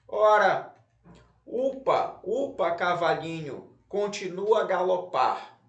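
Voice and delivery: bouncy stresses on "upa, upa" and the end of "galopar"; stressed verse reading. Shown as a demonstration. Teacher reads the verses aloud for pupils, stressing marked syllables. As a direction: recite "Ora, upa, upa, cavalinho, continua a galopar" with punched stressed syllables. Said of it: "falando com mais força as sílabas".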